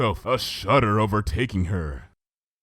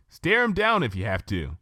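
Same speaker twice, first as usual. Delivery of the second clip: lightly teasing, a bit higher; playful Twilight; 4 semitones higher than usual. Acted. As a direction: smile as you give the advice. Twilight voiced in story.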